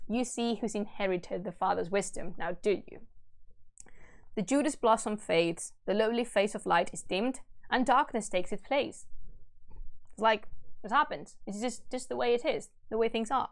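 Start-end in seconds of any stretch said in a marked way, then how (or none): 4.3-9.1 measured, solemn storytelling; stately reading of a verse tale; epic story narration. A narrator's reading. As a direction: read the old epic aloud with gravity. Reads epic aloud.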